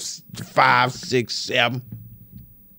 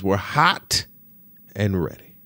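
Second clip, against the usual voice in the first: slogan; 3 semitones lower, slower than usual. Retold or imitated. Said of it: "Little Caesars always says".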